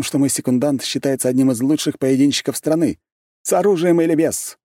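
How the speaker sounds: high, loud, smug aristocrat; gloating young noble, savoring it; arrogant young prince. A narrator's reading.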